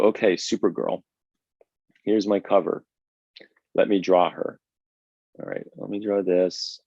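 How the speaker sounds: lightly mock an artist going through the motions; dispassionate. Shown as a demonstration. Artist shows students the unpassionate way, half-hearted. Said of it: "dispassionately or unpassionately".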